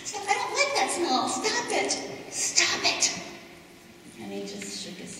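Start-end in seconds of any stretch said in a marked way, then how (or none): 0.0-3.1 pleading cries. Acted. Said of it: "And I said".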